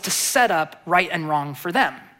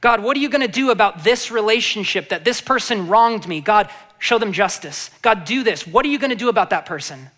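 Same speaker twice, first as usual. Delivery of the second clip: quick, insistent demand for justice; demanding complaint. Retold or imitated. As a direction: rattle off grievances at God. Voicing believers' demand.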